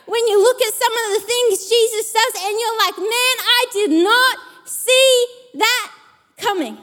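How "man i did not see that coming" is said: shocked wonder. Acted. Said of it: "and surprise and shock".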